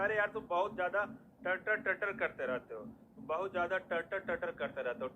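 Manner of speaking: loud, high, exasperated scolding of a chatterbox friend; fed up, nagging him to stop the prattle; nagging complaint. Retold or imitated. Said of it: "नहीं बोलता". (दोस्त को झिड़कते हुए ऊँची, तेज़ आवाज़ में)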